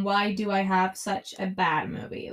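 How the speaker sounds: hushed unvoiced whisper; breathy whispered complaint. Real, not acted. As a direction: whisper it in disbelief. Ranting about a bad movie.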